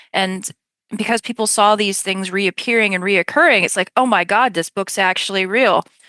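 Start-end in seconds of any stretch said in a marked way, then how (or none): none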